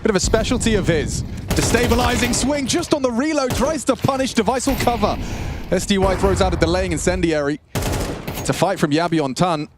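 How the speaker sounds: excited caster, pitch climbing with the action; live play-by-play. Acted. Caster reacts to aggression in the round, rising play-by-play. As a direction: call every swing as it happens, rising high.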